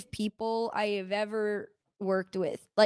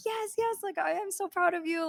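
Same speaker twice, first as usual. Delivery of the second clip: much higher, eager yes, yes; imitating the prince; 9 semitones higher than usual. The prince telling her he is proud, high eager imitation. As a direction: play the prince gushing with pride.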